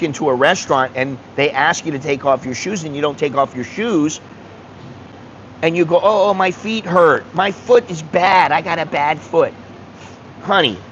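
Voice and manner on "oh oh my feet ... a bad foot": hammed-up whimper about a bad foot; mock whining. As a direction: whine it like a tourist faking a sore foot. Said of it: "stop whining".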